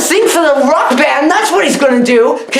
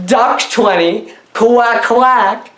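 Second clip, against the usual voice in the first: mock duck; much slower than usual. Duck imitation joke.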